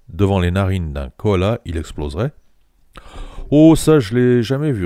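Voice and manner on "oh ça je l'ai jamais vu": louder, higher firm answer; a plain firm denial; firm, clear reply. A narrator's reading. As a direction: say it flat out, no doubt. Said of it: "répondis-je nettement".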